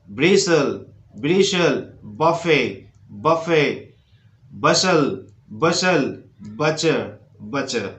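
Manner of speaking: each word down to butcher without its T; spaced model words, T dropped; silent T word drill. Shown as a demonstration. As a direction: leave T silent, one word at a time. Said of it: "टी silent है".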